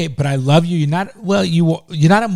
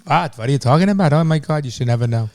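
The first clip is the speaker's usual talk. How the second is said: teasing put-on Jewish accent; mock Jewish accent. Shown as a demonstration. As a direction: exclaim in a fake Jewish accent. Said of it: "Jewish accents".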